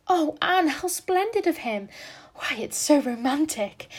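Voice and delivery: high, loud gushing delight; thrilled. A narrator's reading. Jane gushing to Anne, high and loud. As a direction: swoon over the romance.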